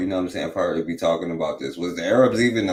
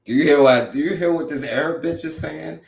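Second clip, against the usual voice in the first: higher, louder, incredulous call to chat; outraged disbelief; 9 semitones higher, 4 dB louder than usual. Real, not acted. Streamer to his chat about the clip, outraged high disbelief. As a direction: pitch it up high in shocked disbelief.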